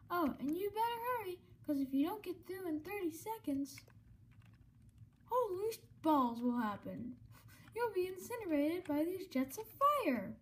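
sassy game show host; showman host voice. Acted. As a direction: tease like a showy host. Voicing Mettaton dialogue.

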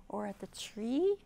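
whispered aside. Acted. Teacher whispering while hunting for the butterfly.

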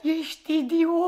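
slow words after a giggling fit; laughing. Acted. Woman mocks her lover after his excuse, laughing. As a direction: drag it out, still amused. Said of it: "Mona, de ce râzi?".

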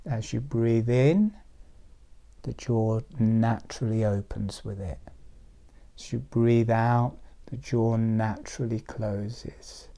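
measured, unhurried cues with long pauses; guided meditation. Real, not acted. Teacher guiding people who are drifting into an altered state, meditative. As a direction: ease them into drifting, phrase by phrase.

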